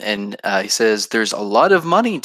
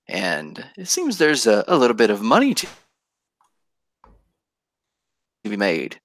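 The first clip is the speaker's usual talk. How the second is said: scheming merchant. Acted. GM voicing scheming merchant NPC.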